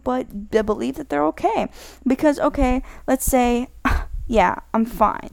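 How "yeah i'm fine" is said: sigh, then a slow reluctant reply; unconvincing "fine". Acted. Upset friend claiming to be fine, sighing reluctantly. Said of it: "They talk to you like that".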